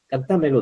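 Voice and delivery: "Cántamelo" misstressed as can-TÁ-melo; wrong stress on TA. Retold or imitated. Teacher quotes how most people say it, stress on TA. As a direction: stress the second syllable, TA, in "Cántamelo". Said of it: "dice la mayoría de la gente".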